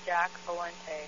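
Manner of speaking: slow, careful read-back. Real, not acted. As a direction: read the name back slowly. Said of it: "spell it for me".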